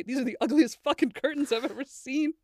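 high, laughing mock yell; half-laughing imitation of a shrieking roommate. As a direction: mimic her screaming over the curtains. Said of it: "yell at me and say".

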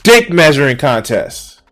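real anger boiling over; angry rant. Real, not acted. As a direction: rage at the useless mascot. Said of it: "I'm getting mad".

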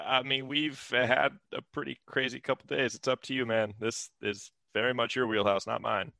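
a light, quiet in-character deferral; Glenn. Acted. Glenn leaves the decision to his friend, soft deferral. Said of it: "He's like".

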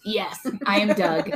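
lightly voiced earnest cartoon dog; Doug from Up. Host confirms the dog character to co-hosts, in slow talking-dog voice. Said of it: "Doug from Up".

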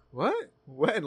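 high, puzzled "what?" as retold; mock-innocent confusion, pitch jumping up; clueless. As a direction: act lightly baffled by the accusation. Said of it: "I genuinely clueless".

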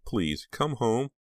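drawn-out, wishful begging; silent plea. A narrator's reading. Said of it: "she pleaded silently".

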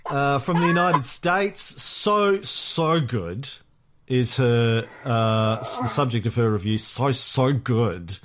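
bad Valley Girl accent, lightly done; reading the review in a mock Valley Girl accent; half-hearted Valley Girl accent. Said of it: "bad Valley Girl accent".

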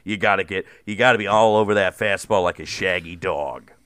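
a tough-talking baseball coach, lightly voiced; Mark DeRosa impression. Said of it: "that's how you do a good Mark DeRosa".

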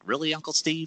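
high-pitched, soft incredulous question; squeaky-high mock astonishment; mock disbelief. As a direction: pretend to question your uncle in disbelief. Imagined incredulous reply to uncle.

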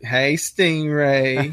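slow, drawn-out hello; drawled mock flirtation; wife's greeting. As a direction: lightly imitate a flirty wife, stretching each word. Wife flirting with Stingray, retold.

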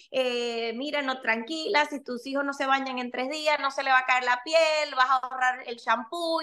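a hint of a Cuban accent giving advice; breezy Cuban mom reassuring other mothers, lightly voiced. Mother in the closet advising other mothers, light Cuban accent. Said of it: "empiezo a hablar como la cubana".

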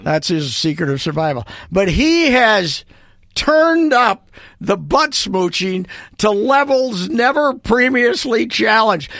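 mock grand rant. Real, not acted. Ranting about Sid Hartman.

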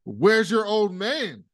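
drawn-out put-on jab; imitating Logan. Logan taunting Greg about his father, slow and mocking. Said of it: "Logan goes".

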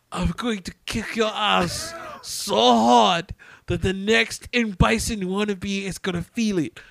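slow hammed-up action-hero shout; a lightly voiced action star yelling, slow; mock movie threat. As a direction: bellow it slowly like a movie tough guy. Quoting Van Damme's movie threat.

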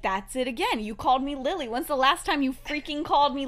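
loud, heated accusation, playfully acted; hammed-up exasperated wife; mock indignation. Wife accuses suspected impostor, quarrel.

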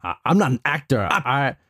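put-on casual New York accent; lightly put-on New Yorker accent. Patient brushes off therapist, New York accent. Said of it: "The New York accent".

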